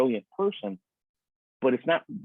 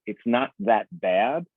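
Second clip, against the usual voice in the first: gentle nurturing tone; much slower than usual. Shown as a demonstration. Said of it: "gentle, nurturing tone".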